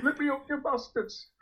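a high, muffled mock yell from inside a bin; a squeaky cry, smothered as if shut inside; imitating a trapped man shouting, muffled. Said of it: "all I could hear was this muffled".

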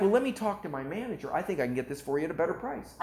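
eager mock sales patter, rising high then hurrying; excited salesman. Seller offering to ask his manager, mildly excited. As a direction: imitate a salesman angling to close. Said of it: "the Israeli gets excited while they're selling".

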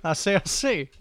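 light put-on old Southern gent accent; thick foreign accent. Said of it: "in an accent, so it's a character".

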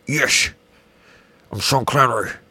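lightly voiced bad Sean Connery impression; a hint of Connery's Scottish accent, badly done; half-hearted Scottish Connery accent; terrible Sean Connery. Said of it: "That is a terrible Sean Connery".

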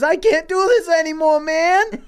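hammed-up breaking voice, laughing through it; mock despair. Murph despairs before jumping.

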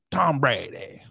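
badly faked Boston take on the name; attempted Boston accent. Shown as a demonstration. Podcaster testing a Boston accent on a quarterback's name. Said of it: "Tom Brady in a Boston accent".

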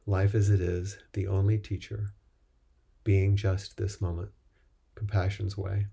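measured, even-toned recital in short phrases; liturgical recitation. Real, not acted. Teacher repeating practice principles to the group, measured recitation. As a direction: recite it as a vow, pausing after each phrase.

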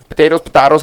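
potatoes said first with ay, then with ah; two ways to say it. Shown as a demonstration. Asking the table how to say the word, both pronunciations. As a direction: contrast potatoes with ay and potatoes with ah. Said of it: "how do you say it?".

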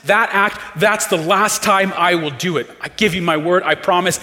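an imitated desperate pledge; pleading promise. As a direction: beg him to believe you, fast and urgent. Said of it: "telling yourself things like".

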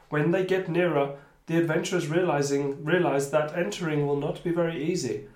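measured storytelling read; game master narration. Acted. Game master describing the temple to players, measured narration. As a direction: read the new scene out steadily.

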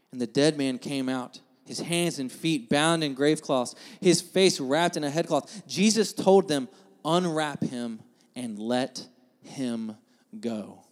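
measured Bible story narration; sermon reading with weighted pauses; scripture reading. A narrator's reading. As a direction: read the passage aloud to a congregation, solemnly. Finishes reading the Bible story aloud.

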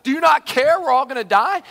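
loud, high urgent plea; acted yelling. Disciples call to Jesus amid chaos, loud alarmed appeal. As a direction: cry out over the chaos. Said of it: "There must have been a lot of yelling".

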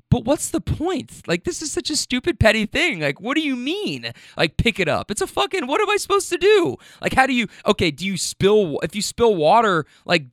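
high, incredulous whine of disbelief; can't believe what's being asked; exasperated disbelief. Retold or imitated. To the HOA lady about the bag, exasperated incredulity.

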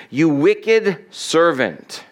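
slow, weighty condemnation; stern rebuke. Acted. Master rebuking his servant, slow and stern. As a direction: lay the verdict down slowly.

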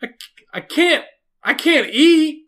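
high-pitched, pitiful whine; high whiny numb-mouthed voice. Retold or imitated. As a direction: whimper it like a helpless patient. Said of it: "And I'm like".

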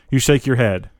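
ordinary delivery, nothing marked

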